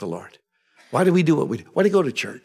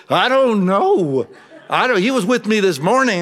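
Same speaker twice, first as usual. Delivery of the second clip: helpless schoolboy; 8 semitones higher, 4 dB louder than usual. Retold or imitated. Boy answering the nuns at school, helplessly pleading. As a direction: play a kid at a loss.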